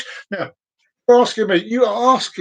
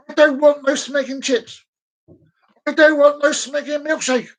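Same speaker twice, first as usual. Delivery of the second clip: indignant, raised voice; exasperated rant; 5 semitones higher than usual. Retold or imitated. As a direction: rant like you've had enough. Ranting about the order.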